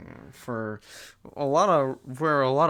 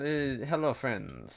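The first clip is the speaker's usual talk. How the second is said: put-on a Scotsman putting on a light French accent; mock-French hello to the table; half-hearted French accent greeting; 5 dB quieter, slower than usual. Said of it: "says the Scottish man in a French accent".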